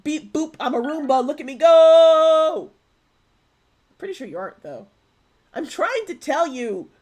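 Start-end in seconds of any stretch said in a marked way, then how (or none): 0.0-2.7 loud, high robot voice, slowing at the end. Pretend. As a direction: play a cheerful vacuum robot. Pretending to be a Roomba.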